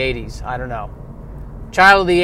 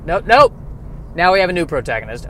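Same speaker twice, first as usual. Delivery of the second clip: abrupt correction. Retold or imitated. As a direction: cut yourself off with a raised "nope". Acting out his confused reading.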